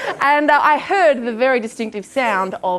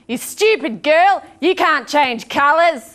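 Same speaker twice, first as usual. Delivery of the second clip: drawn-out, higher scolding mum; imitating mum; 4 semitones higher, slower than usual. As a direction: scold slowly, like a disbelieving mother. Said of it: "And she said".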